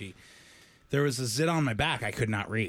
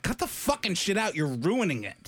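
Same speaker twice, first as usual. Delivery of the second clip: mock irritation; 6 semitones higher than usual. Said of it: "I'm like".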